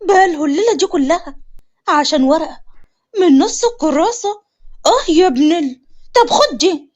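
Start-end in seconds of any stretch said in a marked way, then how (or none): 3.2-6.9 mad outburst. Acted. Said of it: "سندس بجنون".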